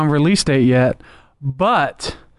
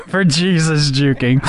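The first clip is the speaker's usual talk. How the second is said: laughing; slower than usual. Real, not acted. Laughs through his own joke.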